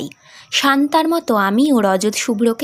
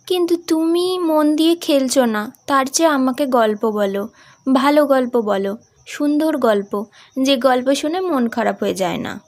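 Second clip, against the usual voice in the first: put-on young daughter; 3 semitones higher than usual. Daughter answering her father on the train, higher. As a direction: play the young sick daughter.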